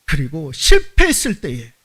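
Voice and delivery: ordinary talk, nothing marked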